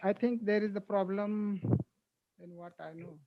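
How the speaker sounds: faint voice dropping away; barely audible. Real, not acted. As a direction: voice fading almost to nothing. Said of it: "your voice is very low".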